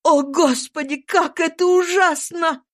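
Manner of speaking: a father who cannot bear it; anguished cry. A narrator's reading. Saint-Clare turns away from his dying daughter, anguished cry. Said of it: "вскричал он".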